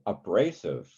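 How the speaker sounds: abrasive with the accent on BRA; weak a, strong BRA in abrasive; stress on second syllable. Shown as a demonstration. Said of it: "Second syllable".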